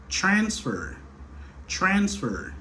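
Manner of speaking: transfer with TRANS high, FER falling; stress on first syllable. Shown as a demonstration. Teacher giving a counterexample, transfer stressed on TRANS. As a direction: punch the first syllable of transfer, then drop. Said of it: "accentué plutôt sous première syllabe là".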